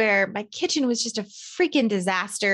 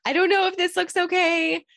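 panicked daughter; 5 semitones higher than usual. Retold or imitated. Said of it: "I can see the panic on her face".

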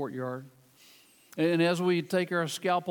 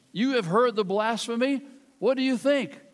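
high priest demanding; 5 semitones higher, 5 dB louder than usual. Acted. High priest voiced in scripture reading.

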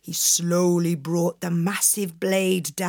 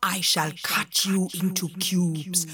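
menacing genie; 3 semitones lower than usual. Acted.

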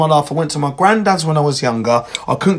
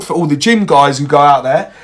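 a mock deep gym-bro voice, only slightly lower; 3 semitones lower than usual. Calling out to the gym guys in a mock deep macho voice. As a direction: put on a touch of macho weight, half joking. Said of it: "I don't know why I said that in a deep voice".

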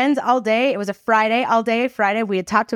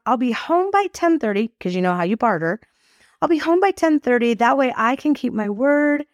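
higher, honeyed bargaining voice; sweet-talking teen; 4 semitones higher than usual. Retold or imitated. Teen coaxes mother on the couch, pitched-up sweet talk. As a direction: work the angle, all sugary persuasion. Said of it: "I'm gonna work the angle".

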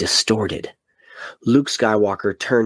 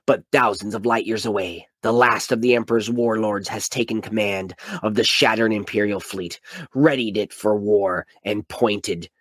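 epic trailer narration. Acted. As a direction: sell it like a movie trailer. Reads blurb as epic trailer.

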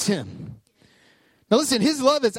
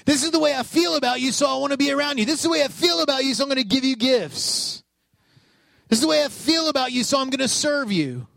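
emphatic declaration; 5 semitones higher, faster than usual. Pretend. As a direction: belt out each line like a proclamation. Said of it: "They're saying".

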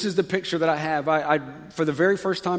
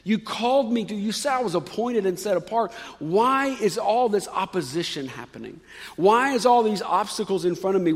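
mildly aggrieved complaint, pitched up a touch; frustrated whining; 2 semitones higher than usual. Acted. Jeremiah questions God about being called yet opposed, frustrated whining. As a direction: plead with a hint of frustrated whining. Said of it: "kind of whining to God a little bit".

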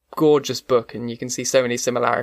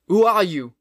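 higher, startled demand; alarmed question; 6 semitones higher than usual. Acted. Old man confronts the creature at the door, alarmed question. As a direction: challenge the stranger in shock. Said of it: "exclaimed the man".

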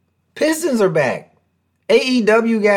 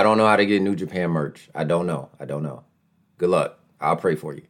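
mock-helpless mumble; 12 semitones lower, 6 dB quieter than usual. Real, not acted. Shrugging off a question.

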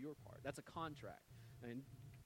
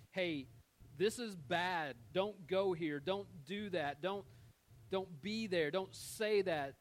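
louder, urgent commands, the last one slowed right down; stern warning; 3 semitones higher, 6 dB louder, slower than usual. Pretend. God warning his people away from harm, loud and stern. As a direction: warn them off like a guardrail.

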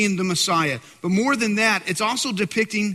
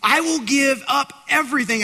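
eager scribe vowing, higher and a bit louder; excited; 7 semitones higher, 3 dB louder than usual. Retold or imitated. Scribe pledging to Jesus, in an eager mock-excited voice. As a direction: blurt out the promise with zeal. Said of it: "He's so excited".

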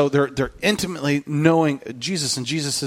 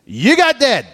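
high, pleading Peter voice, louder; heartbroken Peter; 12 semitones higher, 4 dB louder than usual. Retold or imitated. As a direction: voice a crushed, disappointed disciple. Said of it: "Peter is heartbroken".

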